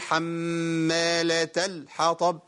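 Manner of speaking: slow "حمالة الحطب" with a hard, cut-off l; over-tense lam, wrong. Shown as a demonstration. Teacher showing a mistake, "حمالة الحطب" with stiffened lam. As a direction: press and stop the ل in "حمالة الحطب" before the ح. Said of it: "كده عملت شدة".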